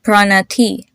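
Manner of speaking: "Pranati" with uh for both a's and a long ee at the end; teacher's repeat-after-me "Pranati", light p-r and n; modelled "Pranati". Shown as a demonstration. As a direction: sound out "Pranati" carefully, breath on the t. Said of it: "I'll say it once and you repeat".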